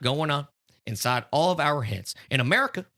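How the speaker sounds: mild Trump voice; Trump impression. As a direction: boast like Trump at a rally. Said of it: "Can you do a Trump one?".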